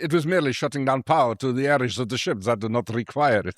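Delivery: a hint of a Transylvanian vampire accent. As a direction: lightly do the Dracula vampire accent. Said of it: "I want to do a vampire accent for him".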